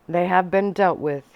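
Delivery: a mild hard edge, falling flat at the end; edge in his voice. Acted. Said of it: "with an edge to his voice".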